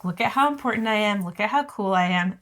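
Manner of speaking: quick, puffed-up boasting; mock preening. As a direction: show off like a bird fluffing feathers. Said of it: "puffed up preening his feathers".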